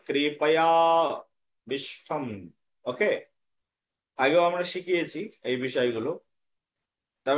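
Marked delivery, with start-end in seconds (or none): 0.1-2.2 কৃপায়া বিষ্ঠম with the initial আ absorbed into কৃপায়া; careful model of কৃপায়া বিষ্ঠম with a held link; half-sounded আ. Shown as a demonstration. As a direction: sound out কৃপায়া, then বিষ্ঠম without a full আ. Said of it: "কিভাবে উচ্চারণ হবে?".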